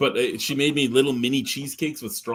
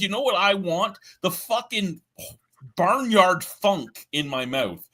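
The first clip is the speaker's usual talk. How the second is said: high, drawn-out mocking plea; mock eager taster; 7 semitones higher, slower than usual. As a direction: beg for it in exaggerated, slow, pitched-up words. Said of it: "Who the fuck goes".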